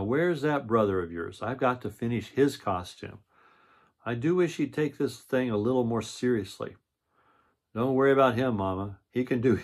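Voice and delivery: storybook read-aloud voice; reading to children. A narrator's reading. Reads the picture book aloud.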